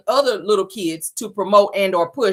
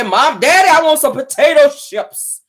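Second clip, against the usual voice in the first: put-on childish thick-tongued whine for chips; lisping little girl; 4 semitones higher, 4 dB louder than usual. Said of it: "the little girl said".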